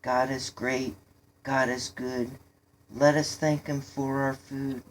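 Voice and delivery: recited prayer. A narrator's reading. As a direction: recite a rote mealtime prayer, evenly. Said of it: "He recited".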